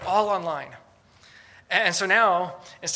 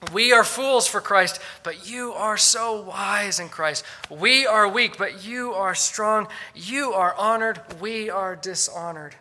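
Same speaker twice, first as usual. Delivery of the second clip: sarcastic; 2 semitones higher, 5 dB louder, slower than usual. Retold or imitated. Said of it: "his voice dripping with sarcasm".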